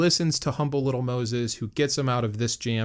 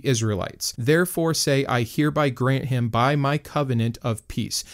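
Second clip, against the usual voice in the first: measured, formal Bible reading; scripture reading. Acted. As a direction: read it out like solemn scripture. Reads scripture passage aloud.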